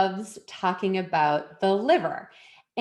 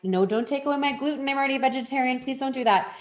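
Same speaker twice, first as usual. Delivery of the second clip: higher-pitched, half-joking inner protest; mock pleading; 5 semitones higher, faster than usual. Client silently begging to keep her gluten, mock pleading. Inner plea against the advice, acted.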